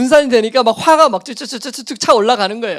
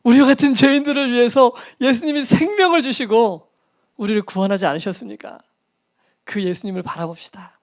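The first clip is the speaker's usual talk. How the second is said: earnest altar-call appeal fading to a whisper; pleading sermon call. Retold or imitated. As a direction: preach the closing appeal with music. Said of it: "호소 음악을 딱 틀고".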